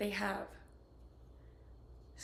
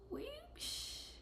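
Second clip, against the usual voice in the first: whoops; 8 dB quieter than usual. Real, not acted. Small slip while painting.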